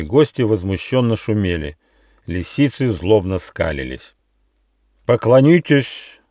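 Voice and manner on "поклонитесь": slow, louder, higher command. A narrator's reading. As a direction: order it slowly and menacingly. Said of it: "второй раз приказал королевский альбатрос".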